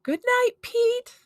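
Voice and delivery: high, loud, drawn-out goodnight; exasperated parent ending it firmly; great finality. A narrator's reading. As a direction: shut the kid down, loud and slow. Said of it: "said with a great finality".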